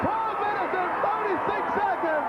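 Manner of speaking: excited. Real, not acted. Live pin count call.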